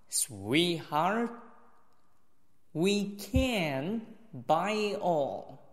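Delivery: slow model reading, stopping after each phrase. Shown as a demonstration. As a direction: lift the key words, leave long pauses. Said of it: "停顿了我就直接停". (慢速示范，停顿分明、重点词声调提高)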